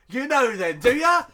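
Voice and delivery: loud, high-pitched challenge; mock accusation. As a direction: confront them, hammed-up and loud. Acts out accusing Keanu over bag.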